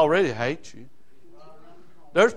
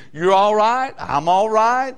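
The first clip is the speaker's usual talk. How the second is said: mock deceiver; 3 semitones higher, 4 dB louder, slower than usual. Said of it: "this guy that comes along and says".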